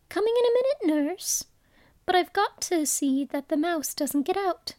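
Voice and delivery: put-on high, sing-song child calling back; answering the nurse. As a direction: pretend to answer the nurse from far off. Alice imagines answering her nurse.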